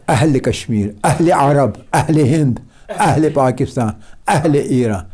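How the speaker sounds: each "اہل" opened with a glottal catch; slight jolt. Shown as a demonstration. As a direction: list them, jolting every "اہل" a little. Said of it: "جھٹکے کے ساتھ تھوڑا سا".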